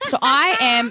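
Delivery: crying voice. Retold or imitated. Still retelling the trauma.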